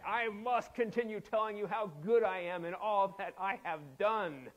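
hammed-up open boast; mock bragging. Preacher paraphrasing Paul's boasting for laughs, mock bragging. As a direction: declare it like an unashamed show-off. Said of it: "that's just a brag brag".

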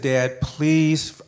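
drawn-out, tearful plea; choking up on a drawn-out please; tearing up. Real, not acted. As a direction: plead with tears starting to rise. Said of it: "sir, you're tearing up?".

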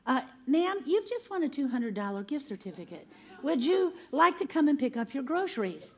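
lightly voiced phone caller with lilting pitch; a hint of customer-service singsong; store caller. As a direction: imitate a polite prize-notification call.

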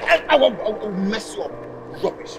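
furious yelling. Acted. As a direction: rage at her, out of control. Man yelling furiously at woman.

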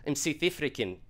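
put-on cycling through Scottish, Irish, South African accents; bad accent impressions. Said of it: "and I was like".

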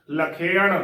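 ਲਖੇਣ as la-khe-an with retroflex n; correct pronunciation. Shown as a demonstration. Teacher reviews the spelled-out word, careful pronunciation. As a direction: voice ਲਖੇਣ in three parts, la-khe-an. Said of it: "ਇਸ ਦਾ ਸ਼ੁੱਧ ਉਚਾਰਨ ਕਰਨਾ ਹੈ".

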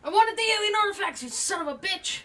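raging gamer. Real, not acted. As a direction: scream it at the screen. Raging after being killed.

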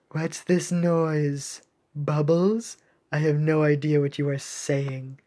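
lightly voiced, measured officer; a hint of a cool commander; puzzled navy captain. Ice captain questioning the shark, mildly puzzled.

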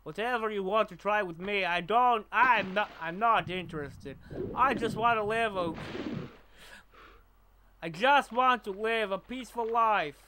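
put-on lightly done foreign-accent game character; Nico. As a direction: attempt a weary immigrant's foreign accent. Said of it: "I can't do Nico very well".

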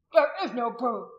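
loud, forced-out protest; ground out loudly. A narrator's reading. Restrained man disputing the charge, ground out loudly. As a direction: grind the words out at volume. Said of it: "ground out as loudly as he could".

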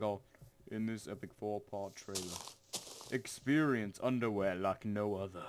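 imitating an epic trailer narrator; mock-grand trailer announcement; movie trailer voice. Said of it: "was he like".

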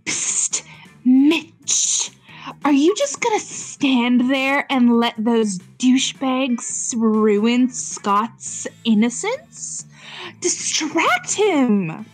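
sly hissing snake; slow, sassy serpent whisper. Acted. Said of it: "you need to give her a sassy snake voice".

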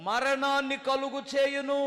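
మరణాన్ని కలుగు చేయును drawn out slowly and evenly; first slow reading of మరణాన్ని కలుగు చేయును; slow solemn reading. Shown as a demonstration. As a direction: read the verse slowly and gravely. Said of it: "ఏనండి జాగ్రత్తగా".

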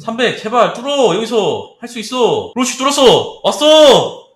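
loud, high urging then triumph; root for it, then erupt; excited cheering. Real, not acted. Cheering the price through resistance.

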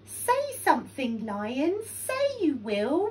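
ordinary delivery

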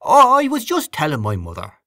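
high, effusive gush of praise; high-pitched, worked-up praise; overcome admirer. A narrator's reading. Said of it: "the catch in his voice".

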